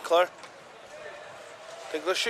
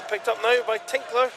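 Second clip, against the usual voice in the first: lively play-by-play; 6 semitones higher than usual. Real, not acted. Live play-by-play build.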